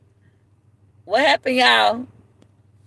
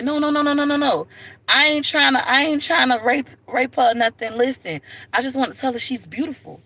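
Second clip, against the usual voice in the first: frantic denial; 5 semitones higher than usual. Retold or imitated. Man frantically denying to mom.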